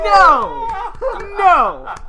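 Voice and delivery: loud laughing disbelief; excited yell. Real, not acted. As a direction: shout it through laughter. Reacting to the mock prize.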